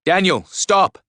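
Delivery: high urgent shout to stop; screamed command. A narrator's reading. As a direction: cry out after someone running away. Screaming after fleeing friend.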